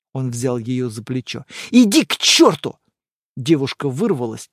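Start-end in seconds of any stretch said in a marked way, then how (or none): 1.7-2.8 louder, higher shout; angry dismissal. Acted. Girlfriend shouting at boyfriend as she leaves, furious. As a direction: fling the words at him. Girl storms out.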